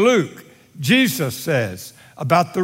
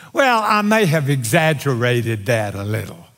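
euphemistic excuse; 5 semitones lower than usual. Acted. Man softening a lie with a pastel word, hedging. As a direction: play down the fault, pitched low. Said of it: "we put a fancy pastel word in our mouth".

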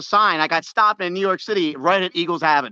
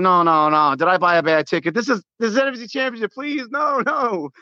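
rising, pleading panic over the seats; panicked plea. Retold or imitated. Panicked about a bad ticket.

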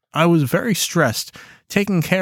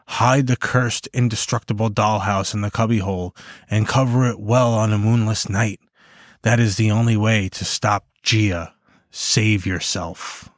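hushed creeping horror; 3 semitones lower than usual. Acted. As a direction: read the note like a dark warning. Reading ominous hidden note.

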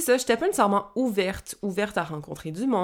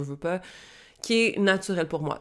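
ordinary delivery

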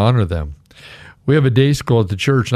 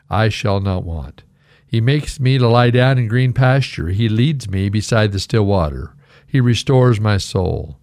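scripture recitation. Acted. Pastor reciting the psalm to his congregation.

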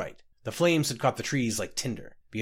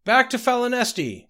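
very high, loud shouted answer; high-pitched desperate holler; frantic cry; 12 semitones higher, 5 dB louder than usual. A narrator's reading. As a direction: cry it back over the water. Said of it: "cried Scotty".

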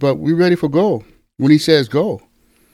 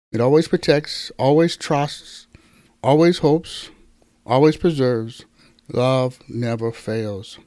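scripture reading. Acted. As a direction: let each line of the love passage land. Reads First Corinthians thirteen aloud.

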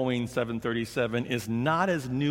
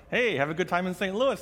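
bright, raised passing greeting; cheery call-out; 5 semitones higher, faster than usual. Retold or imitated. Passengers greeting each other across gates, cheery call.

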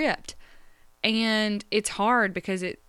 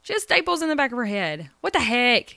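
tearful worry; 8 semitones higher than usual. Retold or imitated. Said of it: "I'm like".

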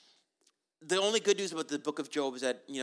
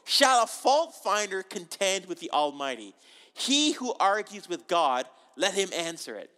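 slow, louder, solemn divine rebuke; voice of God; 3 semitones higher, 5 dB louder than usual. Acted. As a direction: boom it out as God reading judgment. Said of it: "And the Lord said to Job".

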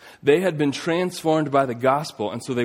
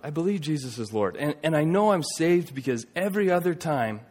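lightly imitated tearful plea, a little raised; retold tearful confession; 4 semitones higher than usual. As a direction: retell it with a touch of tears. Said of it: "through tears, just bawling".

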